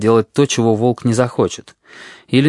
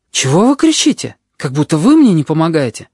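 put-on high, loud child's protest; indignant boy; 5 semitones higher, 4 dB louder than usual. A narrator's reading. Boy protesting to the nurse, high indignant child's voice. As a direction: push back at her.

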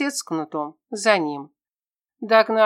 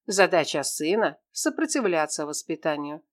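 usual speaking voice

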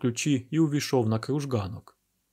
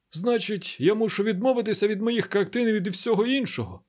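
desperate baron; 3 semitones higher than usual. Acted. Baron's voice in dialogue.

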